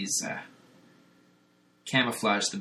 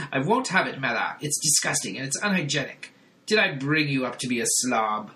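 scolding father voice; 3 semitones higher than usual. Retold or imitated. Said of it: "the brain is like".

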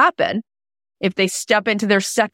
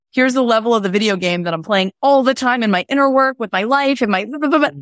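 rising exasperation; 5 semitones higher, faster than usual. Retold or imitated. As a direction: climb up into exasperated blah blah. Venting to husband.

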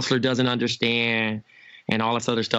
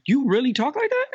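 shocked disbelief; 13 semitones higher than usual. Retold or imitated. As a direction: act floored by his mouth. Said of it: "I'm like".

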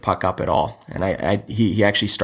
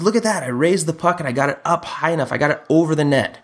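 put-on much higher, proud little kid voice; imitating young son; 7 semitones higher than usual. Dad imitates his son bragging about the shot, in a high proud kid voice. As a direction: squeak it out like a thrilled six-year-old.

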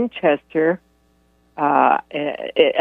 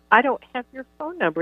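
teasing; 8 semitones higher, 4 dB quieter, faster than usual. Retold or imitated. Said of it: "I would tease him".

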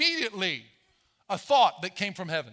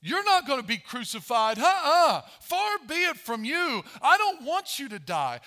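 pleading Peter; 5 semitones higher than usual. Retold or imitated. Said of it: "He said".

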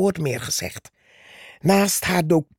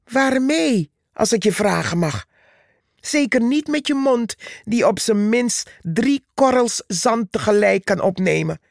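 mocking scorn; 4 semitones higher than usual. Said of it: "vroeg Purperhart".

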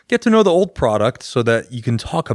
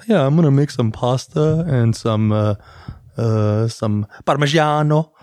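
mock Italian accent. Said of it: "cooks suddenly get the accent of the food".

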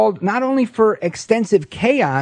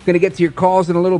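upbeat host intro, slightly raised pitch; talk-radio announcer welcome; radio show opener; 3 semitones higher than usual. Real, not acted. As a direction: open the hour and rattle off the call-in number.

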